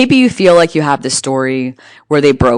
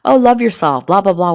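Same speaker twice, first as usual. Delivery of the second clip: mocking singsong; 5 semitones higher than usual. Mocking empty self-love advice.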